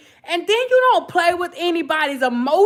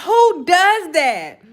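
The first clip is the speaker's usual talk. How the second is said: incredulous; 4 semitones higher, much slower than usual. Retold or imitated. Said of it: "I'm sitting up here like".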